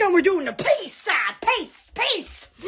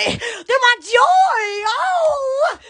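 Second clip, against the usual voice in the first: drawn-out joyful cry; 5 semitones higher, much slower than usual. Real, not acted. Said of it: "And they're my joy".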